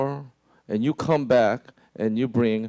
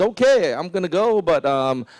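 scheming. Retold or imitated. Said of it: "His posture is".

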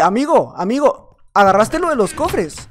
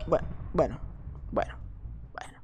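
normal talking voice

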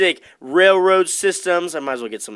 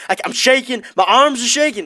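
higher, louder faked jitters; mock shaking excitement; 8 semitones higher, 5 dB louder than usual. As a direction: ham up being overwhelmed. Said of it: "No, I'm just kidding".

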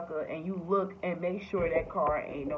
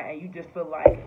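ordinary talk

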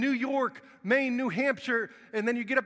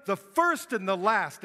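royal announcement; 2 semitones higher, 4 dB louder than usual. Retold or imitated. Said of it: "and he announces".

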